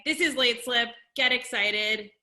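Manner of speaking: stage host bringing on the band; hype introduction. Real, not acted. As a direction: pump up the audience.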